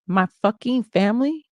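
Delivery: a hint of yelling at the top of his lungs. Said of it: "at the top of his lungs".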